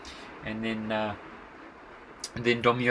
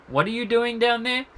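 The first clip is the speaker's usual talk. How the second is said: surprised call down; 12 semitones higher, 7 dB louder than usual. Retold or imitated. Searchers find him in well.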